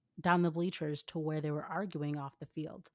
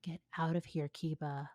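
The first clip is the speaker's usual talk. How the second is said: ordered; 3 dB quieter than usual. Acted. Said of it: "Ino ordered".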